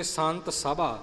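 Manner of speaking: ਸਭਾ with a light single middle consonant; soft reading. Shown as a demonstration. Teacher modelling the phrase, ਸਭਾ soft and undoubled. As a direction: keep ਸਭਾ soft, sa-bhaa. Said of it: "ਪੋਲਾ ਪਾਠ ਕਰਨਾ".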